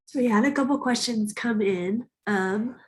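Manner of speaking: blocked nose voice; stuffy congested speech. Real, not acted. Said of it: "I'm congested, so I hope you can hear me".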